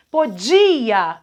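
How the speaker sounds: podia with a lengthened, strong DI; stress on DI. Shown as a demonstration. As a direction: lean on the di in podia. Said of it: "fora do radical também".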